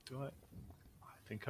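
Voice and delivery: conspiratorial whisper; hushed and breathy, laughing at the end. Pretend.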